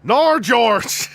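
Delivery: high, loud Australian "no"; hammed-up Aussie cry of protest; broad Australian accent. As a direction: wail it in an exaggerated Australian accent. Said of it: "whenever I try to do Australian".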